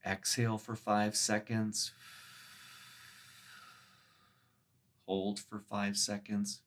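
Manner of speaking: measured meditation guide with long pauses; guided meditation. Acted. Meditation teacher guiding listeners through a body scan, guided meditation. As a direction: lead them gently through it, leaving space between phrases.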